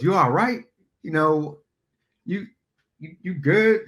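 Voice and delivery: high, wary check-in; concerned. Retold or imitated. Jill to twitchy Phil, uneasy and high.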